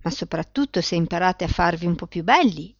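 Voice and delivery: plain reading voice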